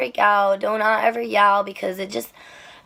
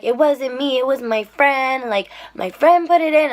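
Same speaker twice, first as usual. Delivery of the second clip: mildly agitated retold protest, rising higher and louder; imitated freaking out; 3 semitones higher, 4 dB louder than usual. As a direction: mimic a passenger getting worked up. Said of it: "freaking out".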